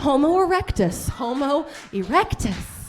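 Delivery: slow, loud announcing voice; museum guide. Pretend. Comic imagining museum chart, slow proud announcement. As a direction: present it like a museum exhibit. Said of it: "It's like".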